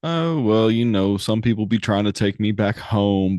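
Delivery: easy cowpoke bravado; a hint of a Western gunslinger; swaggering cowboy.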